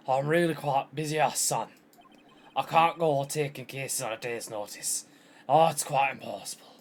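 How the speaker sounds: put-on voice in wobbly mock-Scottish accent; lightly caricatured pompous boss; blustering old lawyer. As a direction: brush off the young lawyer with bluster. Voices Marvin Grosberg refusing the case.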